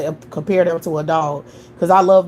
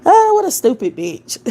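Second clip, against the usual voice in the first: 1 laughing scorn; 11 semitones higher, 3 dB louder than usual. Real, not acted. Mocking a chat troll.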